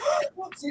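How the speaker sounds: high, soft gasp; mock gasp. Co-host imitating wife's look at him, mock gasp. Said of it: "and she's like".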